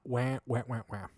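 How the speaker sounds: fart noise imitation. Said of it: "the fart went".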